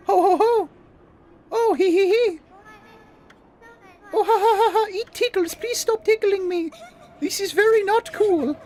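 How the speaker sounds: high ticklish giggling goddess; ticklish laughing. Acted. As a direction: laugh helplessly while being tickled.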